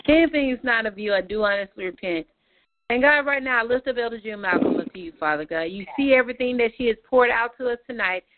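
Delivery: earnest prayer voice, lifting names up to God; closing prayer. Real, not acted. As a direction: pray it over the group with conviction.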